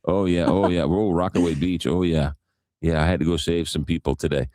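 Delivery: imitated New York lifeguard; thick New York accent. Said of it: "such a thick New York accent".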